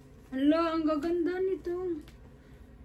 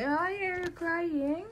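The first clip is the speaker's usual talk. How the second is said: soothing; 3 semitones higher, 4 dB quieter, slower than usual. Real, not acted. Soothing a crying child.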